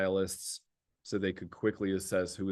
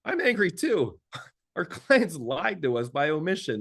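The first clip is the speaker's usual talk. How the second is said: mock angry teammate; 6 semitones higher, 3 dB louder than usual. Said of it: "the next person says".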